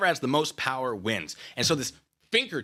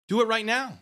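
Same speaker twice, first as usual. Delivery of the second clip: taunting demand; 10 semitones higher, 4 dB louder than usual. Acted. Repeated taunt.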